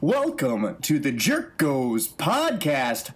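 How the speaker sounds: booming ringmaster welcome, drawn out. Acted. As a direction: announce it like a circus ringmaster. Circus-style podcast opening.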